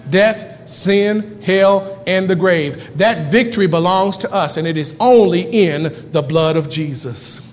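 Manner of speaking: sermon delivery with weighty key words; emphatic preaching. Acted. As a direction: preach it in punched, rhythmic phrases. Preaches to congregation.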